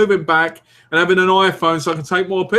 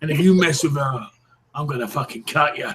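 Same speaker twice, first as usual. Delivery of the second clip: put-on East End accent. Jokey threat to protect a partner, East End accent. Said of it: "talk more East End again".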